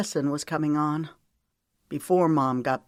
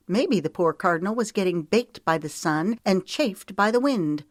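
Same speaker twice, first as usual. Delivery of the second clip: higher heroine voice, pressing her point; pleading her case on the cardinal's behalf; insistent heroine, arguing back; 4 semitones higher, 3 dB louder than usual. Acted. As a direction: counter his story with raised, emphatic pitch.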